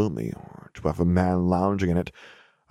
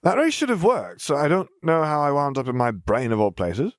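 put-on high, light girl telling her morning; a matter-of-fact young girl; 8 semitones higher than usual. A narrator's reading. Girl character, puzzled.

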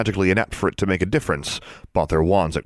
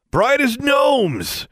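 high, slow sneer; 3 dB louder, much slower than usual. A narrator's reading. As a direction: stretch it out with contempt. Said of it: "Ethan sneered".

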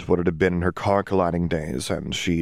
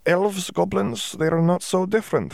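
Dimitri's voice; 13 semitones higher than usual. A narrator's reading. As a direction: stretch it out like he knows better. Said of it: "Dimitri said".

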